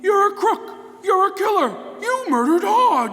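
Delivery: angry accusation. Acted. Gates accuses the Shadow angrily.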